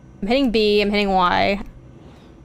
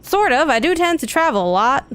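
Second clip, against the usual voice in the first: higher-pitched game character voice; lightly voiced researcher character; 5 semitones higher than usual. Researcher explaining the job to a stranger, lightly voiced. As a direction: read the researcher's lines a little high.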